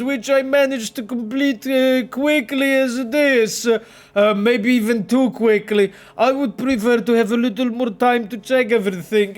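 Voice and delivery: lightly voiced Polish Bielsko-Biała accent, a touch Italian. Streamer voicing a game mechanic in a light Bielsko-Biała accent. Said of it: "I tried to hit the Bielsko-Biała accent".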